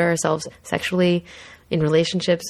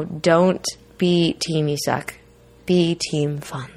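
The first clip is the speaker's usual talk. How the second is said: slow, deliberate slogan; slow catchphrase; much slower than usual. Shown as a demonstration. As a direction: spell the motto out slowly. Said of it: "as we like to say".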